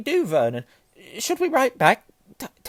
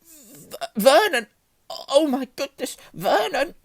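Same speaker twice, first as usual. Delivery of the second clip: very high, loud, stammered wail; stammer, then wail in horror; choking with shock; 10 dB louder, slower than usual. A narrator's reading. Aunt reads letter, calls husband, choking with shock. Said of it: "made a choking noise".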